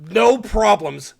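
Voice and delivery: slow, bold and proud; full-chested confidence. Retold or imitated. Guy signing off proudly, full-chested and slow. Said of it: "Says that shit with his full chest".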